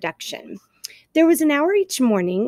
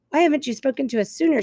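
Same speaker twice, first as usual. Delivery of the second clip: fast, higher accusing screech; screeching owl; 4 semitones higher, faster than usual. Acted. Owl screeches down at the robot, fast and high. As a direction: fire the question from up high. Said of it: "screeched the owl".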